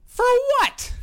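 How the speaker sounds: put-on very high, loud northern Canadian accent; shrill Canadian accent. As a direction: squeal it like Shoresy, Canadian accent. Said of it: "that northern accent with the high pitch shrill in there".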